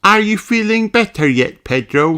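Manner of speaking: put-on high childlike sheep voice; sweet high young girl voice; little sheep voice. Susie voiced.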